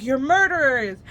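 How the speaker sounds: loud, shocked accusation; mock accusation. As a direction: point and accuse them. Staff accuse them.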